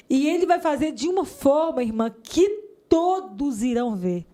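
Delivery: high, slow prophetic declaration; with authority. Retold or imitated. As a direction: proclaim it slowly like a prophet. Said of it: "ele falou com tanta autoridade".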